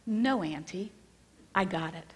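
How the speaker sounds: retold matter-of-fact, unruffled reply; mildly calm, settled delivery; calm toddler quote. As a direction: calmly retell a toddler's simple assurance. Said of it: "said as calmly as anything".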